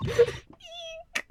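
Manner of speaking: very high, loud mock scream; acted terrified shriek. Girl showing Apollo a corpse, acted high-pitched scream. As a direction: shriek in hammed-up horror, stammering.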